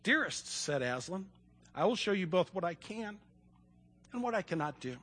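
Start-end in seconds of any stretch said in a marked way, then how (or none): 0.0-0.5 soft, gentle address; quiet storybook tenderness; tender. A narrator's reading. Aslan tenderly answers weeping Lucy. 1.8-5.0 soft, solemn, paused reply; quiet voice of a kindly lion; tender. A narrator's reading. Aslan tenderly answers weeping Lucy.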